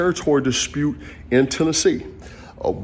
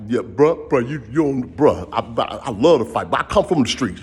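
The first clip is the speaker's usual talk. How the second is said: street talk. Retold or imitated. Telling the franchisee he loves to fight, light street voice. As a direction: slip into casual street talk to the guy. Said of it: "I started talking like".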